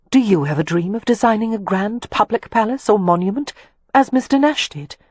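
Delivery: lightly voiced young woman, rising in eager curiosity; a hint of a lady's bright, questioning voice; curious young lady. Narrator voicing the lady as she asks Leo about his dreams, lightly curious.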